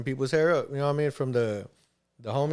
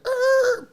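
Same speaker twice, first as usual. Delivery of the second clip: car screech. Retold or imitated. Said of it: "and I'll hear".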